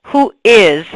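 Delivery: "is" leaned on and set apart; stress on IS. Shown as a demonstration. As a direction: put clear emphasis on "is". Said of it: "emphasis on is".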